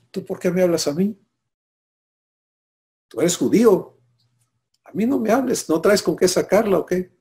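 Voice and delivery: high, fast, sharp retort as the woman; a hint of an aggrieved woman pushing him away; mock indignant Samaritan woman. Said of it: "Es una agresión".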